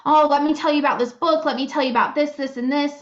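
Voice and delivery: quick, eager imitation of a fan; passionate enthusiast. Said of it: "really passionate about it and were like".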